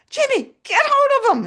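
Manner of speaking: sharp high shout across the classroom; yelling at Jimmy. Retold or imitated. Teacher shouting to a boy to hold his muddy dog. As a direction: call out over the noisy kids.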